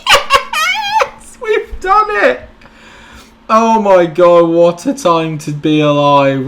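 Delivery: very high, loud yell of victory; real triumphant cheer; euphoric shout. Real, not acted. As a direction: scream the win out. Celebrating qualifying win.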